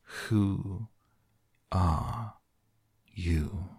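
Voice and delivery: contemptuous. Acted. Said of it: "said the caterpillar contemptuously".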